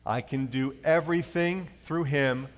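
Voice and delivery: slow, measured unison recitation; congregational reading. Shown as a demonstration. Pastor leading the church in slow recitation. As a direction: read it together in steady meter. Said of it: "read it out loud with me".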